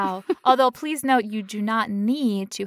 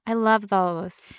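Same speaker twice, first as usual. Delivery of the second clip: sarcastic; slower than usual. Acted. Sarcastic gushing.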